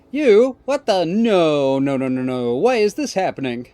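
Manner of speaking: high, loud startled cry sliding into denial; shocked dismay. Acted. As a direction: recoil in disbelief. Ortega shocked seeing Jim.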